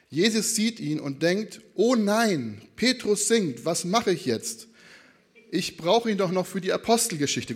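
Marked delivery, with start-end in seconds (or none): 1.7-7.5 exaggerated, half-serious fretting; overdone dismay. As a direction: play up the worry for comedy. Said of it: "das ist ein bisschen überzogen".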